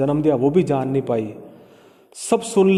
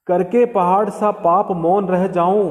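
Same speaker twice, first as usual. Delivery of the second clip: poem recitation. Shown as a demonstration. Teacher recites verse slowly.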